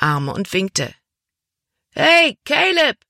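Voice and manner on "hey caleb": much higher, louder, slow shout; boy calling out. A narrator's reading. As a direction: hail a friend across a crowd. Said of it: "rief er".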